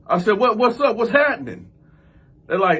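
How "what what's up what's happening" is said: high, loud questioning through a door; calling back. Retold or imitated. Man answers police at his door, raised high voice. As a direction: project wary questions to someone outside.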